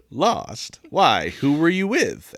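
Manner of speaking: lightly put-on Southern gentleman accent; a touch of Southern drawl. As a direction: speak as a courtly Southern gentleman. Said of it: "Kind of a southern gentleman".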